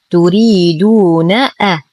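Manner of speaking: slow recited تريدون أ, final ن short before the hamza; unstretched join. Shown as a demonstration. Teacher rebuilds the word for students, short final vowel. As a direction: recite تريدون slowly but clip ن into أ. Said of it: "أننا لم نمطط الحرف".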